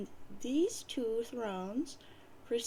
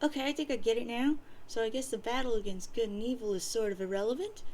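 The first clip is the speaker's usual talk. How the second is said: rapid, rattled-off words; quick eager boy; faster than usual. Acted. John working out the quest aloud, fast and eager. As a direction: rush it like an excited kid. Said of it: "John says".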